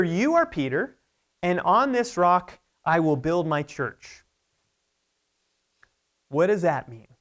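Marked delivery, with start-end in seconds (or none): 0.0-4.2 measured, mildly forceful declaration; forceful proclamation. Retold or imitated. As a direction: proclaim it with authority, slowing on the promise. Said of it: "he speaks so forcefully".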